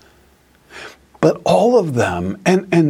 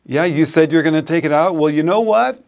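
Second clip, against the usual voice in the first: higher, quick sarcastic mother's voice; scolding mom; 4 semitones higher, faster than usual. Retold or imitated. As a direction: throw the excuse back at him. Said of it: "then she'd say it".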